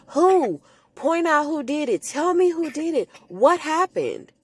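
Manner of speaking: a hint of an urgent medium, pitched high; demanding medium. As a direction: press the spirit for a name, lightly voiced. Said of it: "Missus Reynolds is asking her".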